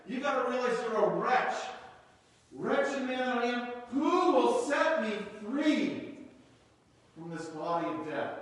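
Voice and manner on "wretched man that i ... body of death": pleading lament. Acted. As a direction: plead it, then let it sink. Reading Paul's cry.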